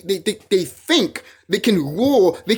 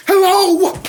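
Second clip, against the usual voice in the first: sarcastic hello; 11 semitones higher, 6 dB louder than usual. Real, not acted. Sarcastic wake-up call to listeners.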